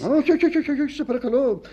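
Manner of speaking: high, rapid-fire string of refusals; agitated protest. Acted. Husband refusing wife's defence of the secretary, agitated. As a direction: cut her off in a fluster.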